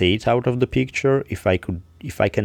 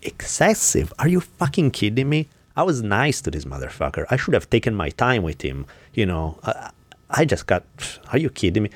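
retold furious retort; 2 semitones higher than usual. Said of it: "And I get pissed".

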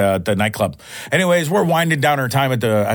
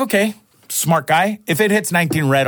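sarcastic; 5 semitones higher than usual. Retold or imitated. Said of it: "I'm like".

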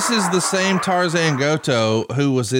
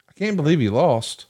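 higher-pitched mock disbelief; imitated crowd disbelief; 4 semitones higher than usual. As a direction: voice the stunned fans' reaction, pitched up. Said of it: "eighty thousand people thought the same thing".

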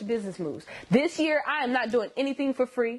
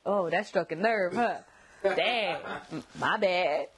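sarcastic; 4 semitones lower, slower than usual. Retold or imitated. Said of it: "I'll probably say something like".

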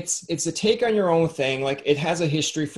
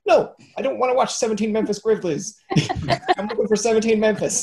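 laughing; 8 semitones higher than usual. Real, not acted. Laughing annoyed search retort.

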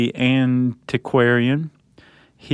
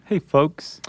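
folksy greeting; 5 semitones higher than usual. Retold or imitated. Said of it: "It's very folksy".

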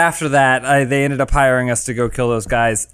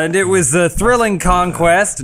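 slow, grandiose war tale; pompous, drawn-out recounting; boastful storyteller; 4 semitones higher than usual. Acted. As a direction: savour every word of your own legend. King's long-winded heroic tale.

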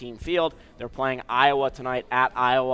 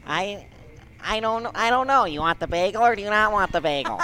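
high-pitched nagging Jewish relative; hammed-up Jewish family voice; Jewish family impression; 6 semitones higher than usual. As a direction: fuss over food like a Jewish relative. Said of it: "This is everyone in my family".

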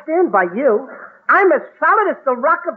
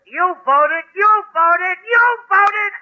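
each repeat higher than the last; building, flustered repetition; rising exasperation; 5 semitones higher, much slower than usual. Acted. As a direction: climb up in pitch with every repeat. Pressed into saying it.

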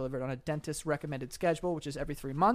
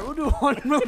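helium voice; 9 semitones higher, 7 dB louder than usual. Real, not acted. Helium voice laughing.

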